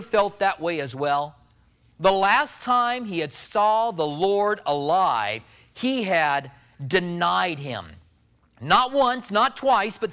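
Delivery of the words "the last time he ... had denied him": slow solemn telling. Acted. Solemn slowed sermon point.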